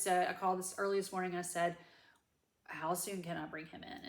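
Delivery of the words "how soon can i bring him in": a hushed retold whisper. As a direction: breathe the question out with no voice. Retold urgent call to vet.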